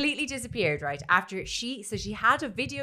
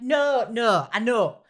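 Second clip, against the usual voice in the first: louder, mildly impatient correction; imitated coaching mother; 4 dB louder, slower than usual. Mother corrects her son's crying for camera, mock insistent. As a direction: mimic a mum directing a take. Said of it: "And she's like".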